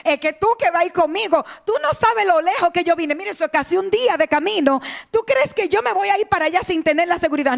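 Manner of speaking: protesta insistente que va subiendo de tono; de queja baja a reclamo agudo; pataleo imitado. Retold or imitated. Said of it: "que ese hombre pataleó y dijo". (reclamo actuado, cada vez más agudo)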